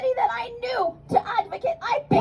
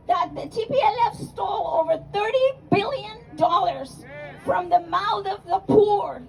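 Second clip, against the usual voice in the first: impassioned shout. Real, not acted. Rally speech, cry and shout heard.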